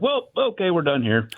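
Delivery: high sarcastic well, then done; dry sarcastic dismissal; fed up. Retold or imitated. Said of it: "I was like".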